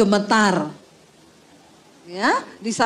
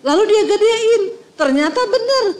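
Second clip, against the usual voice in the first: laughing; 8 semitones higher than usual. Real, not acted. Laugh heard, punchline.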